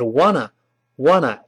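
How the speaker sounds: "want to" merged into "wanna"; linked, reduced "wanna"; fast reading. Shown as a demonstration. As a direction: drop the t's, say "wanna" as one word. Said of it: "我们读快了呢".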